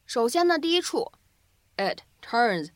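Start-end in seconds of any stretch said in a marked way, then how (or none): 1.8-2.7 "it turns" with the t of "it" held, not released; lost plosive. Shown as a demonstration. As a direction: swallow the t in "it turns". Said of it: "可以有一个失去爆破的处理". ("it turns"的t失去爆破)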